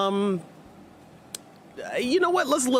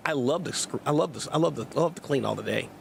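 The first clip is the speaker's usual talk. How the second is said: low, dry sarcasm; mock love of cleaning; sarcastic; 4 semitones lower, faster than usual. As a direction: say it sarcastically, pitch sinking. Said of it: "I mean it in a sarcastic way".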